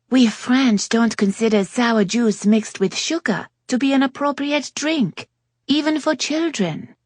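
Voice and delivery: French lady complaining. A narrator's reading. Yasmin complaining about English lemonade, high and loud.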